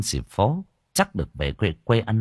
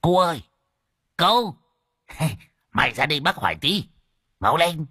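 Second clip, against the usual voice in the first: calling out; 6 semitones higher than usual. A narrator's reading. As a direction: hail someone across the field. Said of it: "gọi".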